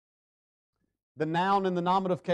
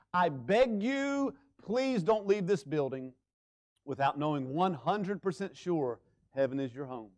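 pleading; slower than usual. Real, not acted. Pleading with hearers.

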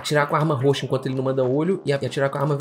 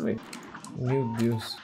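normal talking voice

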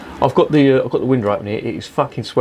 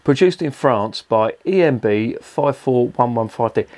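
reading the label out. Real, not acted. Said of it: "this is the best one".

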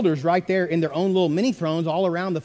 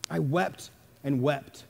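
hushed echo; 7 semitones lower, 9 dB quieter, slower than usual. Retold or imitated. Echoes quote, much softer.

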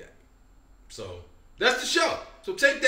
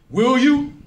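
calling out; 6 semitones higher, 6 dB louder than usual. Retold or imitated. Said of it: "Dwayne popped up like".

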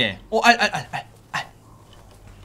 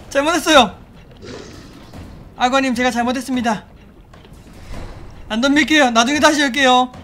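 mock pleading; 3 semitones higher than usual. Begging crocodile for mercy.

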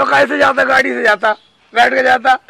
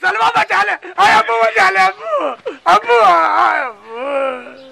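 comic wailing plea; 2 semitones higher than usual. Acted. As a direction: wail for your sister and father to save you. Dragged off, begging for rescue. (अब्बू को पुकारता नकली रोना)

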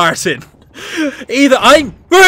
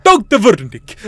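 "Wernick" with a German V; attempted German accent, drifting towards Russian on "Wernick"; 2 semitones lower than usual. Shown as a demonstration. Player trying out the doctor's name, mock German accent. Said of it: "that sounds German".

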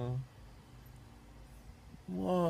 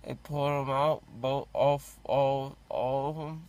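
numb from the dentist. Real, not acted. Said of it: "but I don't feel it".

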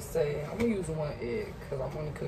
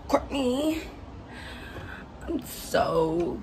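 calling out; 9 semitones higher, 6 dB louder, much slower than usual. Real, not acted. Calling out to someone.

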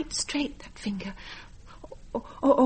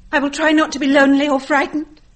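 brave farewell; 4 semitones higher, 12 dB louder than usual. Acted.

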